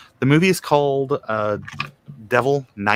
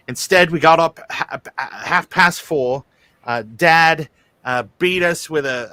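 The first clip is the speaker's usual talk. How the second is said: mock hardship tale; 4 semitones higher than usual. Mock hard-times old man tale.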